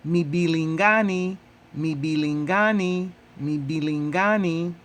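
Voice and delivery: mibilingani drilled three times, each syllable clear; Swahili model word. Shown as a demonstration. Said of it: "how do you say eggplants in Swahili?".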